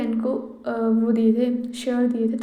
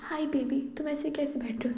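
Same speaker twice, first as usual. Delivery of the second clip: softly, sweet and coaxing; soft flirty greeting; 3 semitones higher, 6 dB quieter than usual. Acted. Wife coos softly at her sitting husband, a quiet tender greeting. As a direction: ease in gently, like cooing at him.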